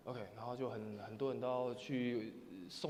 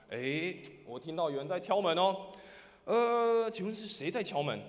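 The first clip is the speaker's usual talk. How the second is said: raised, louder questioning voice; somewhat louder; 4 semitones higher, 8 dB louder than usual. Acted. Person inside asking who is knocking, somewhat louder. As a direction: call out a bit louder, politely asking. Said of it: "用大一点的声音说什么".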